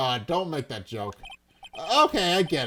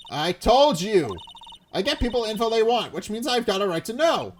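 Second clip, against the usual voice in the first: put-on pushy reporter in a light southern accent; 6 semitones higher, 4 dB louder than usual. Reporter arguing with the cop in a southern accent. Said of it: "That southern accent can only mean".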